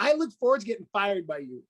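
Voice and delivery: chuckling through the words; laughing. Retold or imitated. Coach laughing to his client about being fired. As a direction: let a laugh ride under the line. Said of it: "I'm like".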